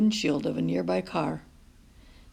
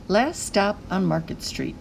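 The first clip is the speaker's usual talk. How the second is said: title read. A narrator's reading.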